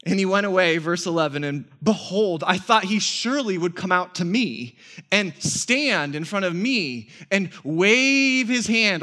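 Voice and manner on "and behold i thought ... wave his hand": retold anger. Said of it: "He's angry".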